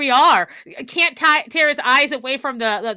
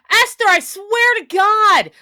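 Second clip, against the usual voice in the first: slow, loud, exasperated scolding; stretched-out, half-mock fury at Esther; exasperated outburst; 6 semitones higher, 5 dB louder, slower than usual. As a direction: drag each word out in fed-up anger. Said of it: "I'm like".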